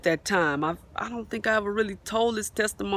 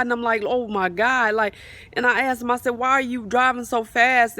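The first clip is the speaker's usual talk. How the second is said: retold alarm; 5 semitones higher than usual. Retelling a terrifying fast car ride.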